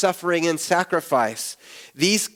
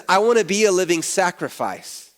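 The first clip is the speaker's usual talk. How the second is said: a touch of eager fervour, lifted slightly; hopeful, keen vow; eager cry of the spirit. Pretend. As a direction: say it as an eager yes to God. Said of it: "my spirit cries out and says".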